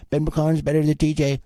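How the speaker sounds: high-pitched mocking taunt; mocking rival fans. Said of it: "they're just gonna be like".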